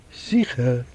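firm answer. A narrator's reading. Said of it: "antwortet fest der Rav Beis Din".

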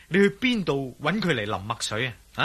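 ordinary delivery

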